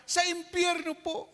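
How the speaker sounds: put-on small boy, sweetly naive; innocent child voice. Child naming home as hell.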